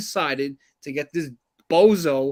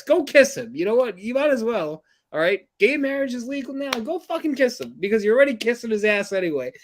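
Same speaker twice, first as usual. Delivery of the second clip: angry taunt; 5 semitones higher than usual. Real, not acted. Angry rant at team owner.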